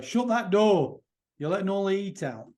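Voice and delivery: put-on Yorkshire accent. Quoting a man's remembered family sayings about scarcity, in a Yorkshire accent. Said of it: "I don't know if that's a good Yorkshire accent".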